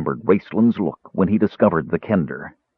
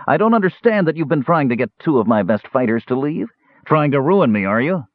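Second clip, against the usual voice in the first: higher, rising dwarf accusation; angry dwarf; 9 semitones higher than usual. Acted. Dwarf accuses Caramon of stealing fighters, higher angry voice.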